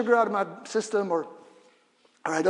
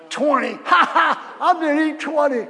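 laughing; 7 semitones higher, 7 dB louder than usual. Pretend. Cheating with the count.

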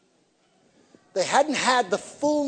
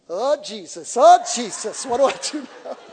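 mock panic; 5 semitones higher, 8 dB louder than usual. Panic at possessed girl.

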